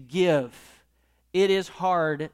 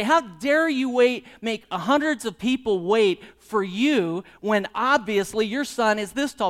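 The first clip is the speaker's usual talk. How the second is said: indignant; 3 semitones higher than usual. Pretend. Indignant rhetorical quote at man.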